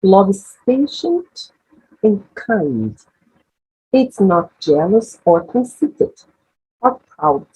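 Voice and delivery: careful English model reading, phrase by phrase; leitura modelo em inglês. Shown as a demonstration. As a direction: read the verse slowly for learners to absorb the sounds. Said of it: "tentem internalizar esses novos sons". (leitura pausada em inglês para alunos iniciantes)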